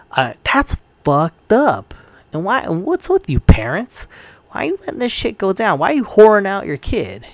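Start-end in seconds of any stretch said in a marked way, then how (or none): 2.3-7.3 high, fast, indignant demands at the parents; real indignant outrage; outraged rant. Real, not acted. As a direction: hurl the questions at the parents. Ranting at the parents.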